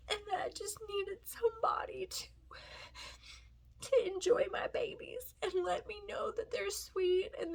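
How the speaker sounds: tearful, breathy near-whisper; words squeezed out through tears; crying. Real, not acted. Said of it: "that's not why I'm crying".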